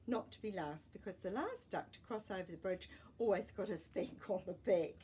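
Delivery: gentle, even storybook reading; story narration. A narrator's reading. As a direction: read it like a bedtime story for kids. Reading a picture book aloud.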